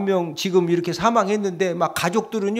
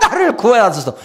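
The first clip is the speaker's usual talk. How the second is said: louder cry for rescue, laughing; mock shouted plea; 5 semitones higher, 6 dB louder than usual. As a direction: call out to be saved, half laughing. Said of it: "무조건 소리 지르는 겁니다". (웃으며 크게 외치는 구원 요청)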